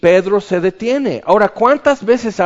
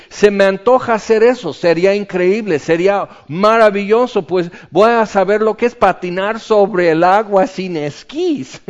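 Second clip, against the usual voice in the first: mock enthusiasm; 3 semitones higher than usual. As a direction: play the thrill-seeker lightly. (se burla del atrevimiento, con entusiasmo fingido)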